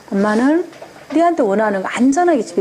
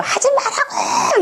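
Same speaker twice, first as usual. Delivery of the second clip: much higher, slow shouted no with a laugh; half-laughing mock shriek at a child; yelling parent; slower than usual. Shown as a demonstration. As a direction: demo a mother screaming stop it. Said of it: "이렇게 해요".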